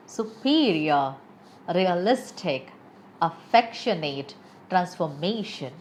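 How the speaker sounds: "Superior, realistic, affectionate, transformation" with each main syllable leaned on; teacher's measured demo of "Superior" to "transformation", stressing PE, LIS, FEC, MA; stressed syllables shown. Shown as a demonstration. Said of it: "where am I putting stress upon".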